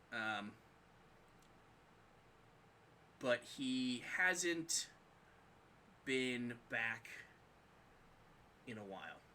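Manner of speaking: Frigg, grave and measured, a touch of worry; lightly played Frigg briefing the gods; lightly voiced goddess Frigg. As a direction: speak as a concerned goddess, slow and pausing. Plays Frigg explaining.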